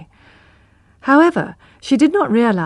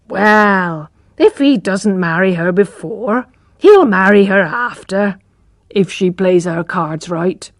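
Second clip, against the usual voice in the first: hopeful mother; slower than usual. Acted. Mother voiced in dialogue.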